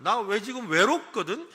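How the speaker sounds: mock lonely. Shown as a demonstration. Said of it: "해라는 거예요".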